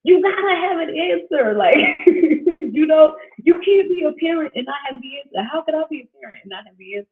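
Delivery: high, exasperated mock protest with a laugh; frustrated plea, lightly hammed-up; retold frustration. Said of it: "it frustrated me because I'm like".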